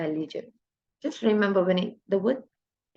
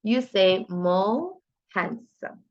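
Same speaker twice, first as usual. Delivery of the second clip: slow correct answer; slower than usual. Shown as a demonstration.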